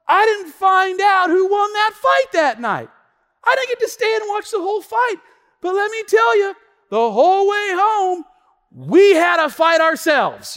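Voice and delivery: high, loud comic complaint; loud, aggrieved preacher storytelling; exasperated rant. Real, not acted. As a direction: build the punchline at a full-voiced shout. Mock-aggrieved punchline of fight story.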